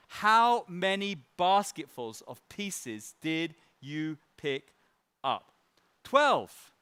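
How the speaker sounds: slow, measured Bible reading; scripture reading. Acted. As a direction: read the passage with weight. Reads Bible passage aloud.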